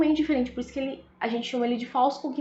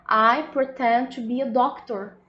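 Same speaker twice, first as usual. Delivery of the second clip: slow English demo. Shown as a demonstration. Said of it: "Eu acho que eu tô falando".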